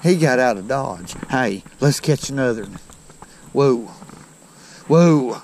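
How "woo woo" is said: two separate whoops; short whoops called into the open; woo call. Real, not acted. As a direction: let out a woo, then a louder one. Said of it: "When I done the woo thing".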